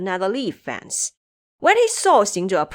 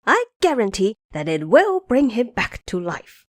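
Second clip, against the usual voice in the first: a hint of a boastful monkey, raised pitch; lightly voiced Monkey King; 4 semitones higher than usual. Xing Zhe boasting his plan to Sanzang, lightly voiced. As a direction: lay out the plan with bravado.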